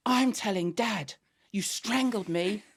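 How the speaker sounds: slow, drawn-out accusation; outraged tattling. Retold or imitated. Daughter threatening to tell Dad, slow and outraged. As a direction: stretch out each word in mock outrage.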